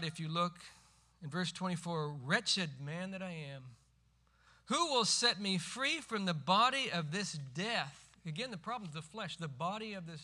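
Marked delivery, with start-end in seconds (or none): 2.2-8.0 louder, slowing, pleading to be set free; desperate cry. Retold or imitated. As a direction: cry the verse out in anguish. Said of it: "He cries out".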